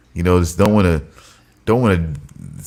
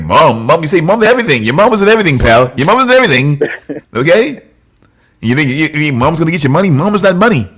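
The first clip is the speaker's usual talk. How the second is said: loud, higher hammed-up lecture; mock scolding; 4 semitones higher, 5 dB louder, faster than usual. Mocking a parent scolding a toddler, loud mock lecture. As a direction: bark it like a fed-up parent.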